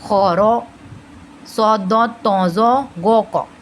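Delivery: slow "सौदो तौजो गो को" with rounded "o"; "खौरो", pause, then slow heavy syllables; heavy-letter mnemonic. Shown as a demonstration. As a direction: repeat "खौरो" full-mouthed for learners. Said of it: "फिर से मैं एक बार repeat कर रही हूँ".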